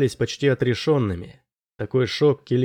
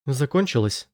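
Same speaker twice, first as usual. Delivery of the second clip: woman's voice; 3 semitones higher than usual. A narrator's reading. Frightened woman asking Kelin from behind him, woman's voice. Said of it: "раздался женский голос за его спиной".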